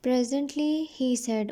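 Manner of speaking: slow, careful reading of the English text; slow story reading. A narrator's reading. Teacher reading the English line slowly to her students. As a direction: read each word out slowly for the class.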